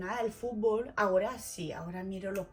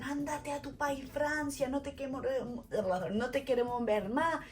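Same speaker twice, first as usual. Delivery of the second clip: higher-pitched mock scolding; imitated hostile rejection; 4 semitones higher than usual. Host family rejecting the French girl, mock scolding. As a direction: send her packing, mildly hammed-up.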